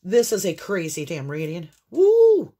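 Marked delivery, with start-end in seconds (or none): 1.9-2.5 high, loud whoop of relief; relieved whoop. Real, not acted. Reader recovering from a coughing fit, loud relieved whoop. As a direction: let it out like you survived.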